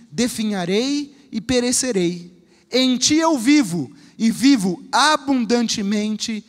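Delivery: slow, earnest prayer reading. Acted. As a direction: pray it aloud, slowly. Prayer read before the sermon.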